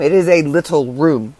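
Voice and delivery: it IS a little room, with is hit loud; stress on is. Real, not acted. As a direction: lean hard on is to insist. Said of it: "when I say little room".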